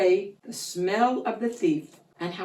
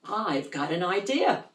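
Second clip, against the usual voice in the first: dog's idea voice; 3 dB quieter than usual. Acted. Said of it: "the bark meant".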